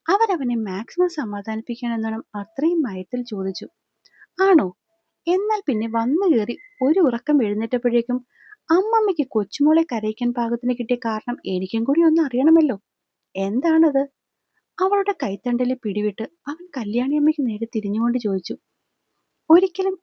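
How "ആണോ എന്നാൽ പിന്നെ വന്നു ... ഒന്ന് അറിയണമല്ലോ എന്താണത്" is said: mock calm over rising rage; sarcastic anger. Furious sarcastic question to grandmother. (ദേഷ്യം നിറഞ്ഞ പരിഹാസം)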